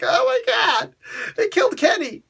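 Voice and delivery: very high shouted mock outrage; South Park quote. Critic quotes the cartoon catchphrase in a high shout. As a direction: shriek it like the cartoon kid. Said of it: "And it's like".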